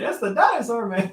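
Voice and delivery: high-pitched catchphrase; dinosaur man voice. Acted. Co-host copying the YouTube intro, high dinosaur man voice. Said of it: "You doing that voice?".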